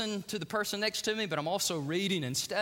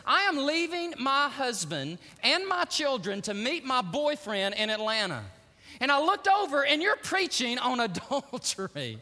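frantic passenger; 4 semitones higher, 4 dB louder than usual. Retold or imitated. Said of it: "She goes".

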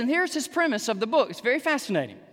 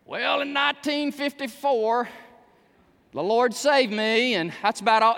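lame testimony; 3 semitones higher than usual. Pretend. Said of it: "would have to go like this".

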